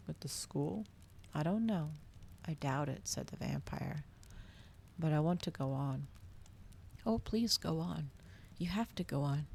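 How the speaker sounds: calm bedtime reading of a dark novel; story narration. A narrator's reading. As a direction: read it steadily, like a bedtime story.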